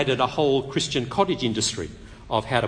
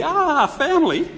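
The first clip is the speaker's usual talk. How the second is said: mock dread; 12 semitones higher, 5 dB louder than usual. Afraid of his family.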